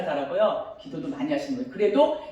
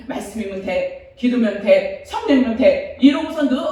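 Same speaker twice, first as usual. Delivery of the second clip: building mantra; 4 dB louder than usual. Retold or imitated. Her old self-assuring refrain.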